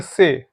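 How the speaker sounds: से said as seh, long e; letter C in Spanish, से. Shown as a demonstration. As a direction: say से like seh, not see. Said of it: "सी को pronounce करते हैं".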